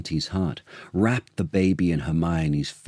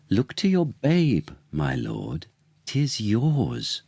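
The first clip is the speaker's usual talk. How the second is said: higher, parting shot; Paulina defiant; 3 semitones higher, slower than usual. Acted. Paulina leaving the baby with the king, higher and defiant. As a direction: tell him firmly the babe is his. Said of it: "said Paulina".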